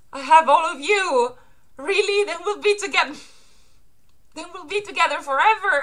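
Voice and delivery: put-on high, sweet little-girl voice; young Hiyori. Daughter to her father in a flashback, high childlike voice. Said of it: "meaning Hiyori in a flashback".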